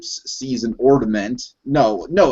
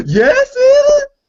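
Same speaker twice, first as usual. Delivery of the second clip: thrilled yelp, very high and loud; 6 dB louder than usual. Retelling a movie scene, quoting Donkey hearing Santa: imitating excited Donkey. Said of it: "I love how excited Donkey gets".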